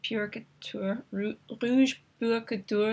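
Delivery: clumsy attempt at a French accent; halting, self-mocking French pronunciation; bad French accent. Shown as a demonstration. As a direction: say it slowly in a poor French accent. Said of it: "my really bad French accent".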